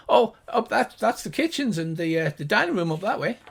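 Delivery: lightly voiced gnome guide; gnomish voice. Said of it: "the two high-pitched gnomish voices".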